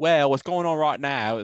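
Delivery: very loud, high Cockney man's voice. Retelling what english guys at the stadium told them, in a cockney accent. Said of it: "They're like Cockney".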